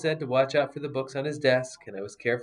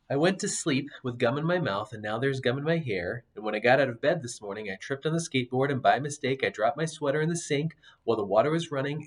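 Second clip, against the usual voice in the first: put-on gentle storybook narration for kids; storyteller voice for young listeners; reading a story aloud. A narrator's reading. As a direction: read it like bedtime to a child.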